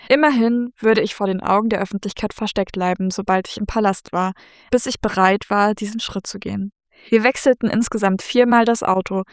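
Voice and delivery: even, measured reading voice; story narration. A narrator's reading. Author reads a novel's opening to co-host, story narration. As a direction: read it aloud evenly in first person.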